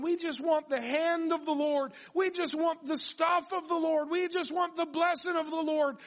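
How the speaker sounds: high-pitched imitation of greedy pleading; mock demanding. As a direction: chant the demand in a high, mocking voice. Acting out the greedy, blessed people.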